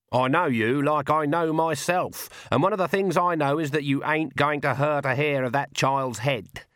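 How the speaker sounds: a hint of a steady old witch, measured and sure; Granny Weatherwax. Granny calmly warns the vampire, lightly voiced old witch.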